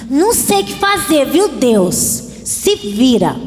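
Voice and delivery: put-on pouty, childish sulk at God; sulky believer. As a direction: sulk like a spoiled kid daring God. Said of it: "tem crente que é birrento e fala assim".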